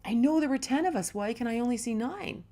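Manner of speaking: can't believe there are only nine; freaking out. Retold or imitated. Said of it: "the guy's freaking out".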